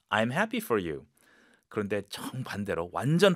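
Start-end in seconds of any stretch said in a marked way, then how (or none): none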